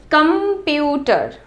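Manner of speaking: "कंप्यूटर" as one slow, connected word; slow word demo. Shown as a demonstration. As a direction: say "कंप्यूटर" slowly without long breaks. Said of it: "बोल के देखो". ("कंप्यूटर" धीरे, एक शब्द में)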